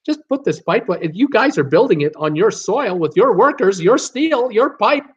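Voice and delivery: a lightly voiced, rising, pleading argument; pleading Canada. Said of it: "the big argument from Canada".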